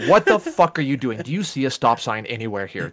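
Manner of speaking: heated mock rant, pitched high; retold road rage rant. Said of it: "I'm like".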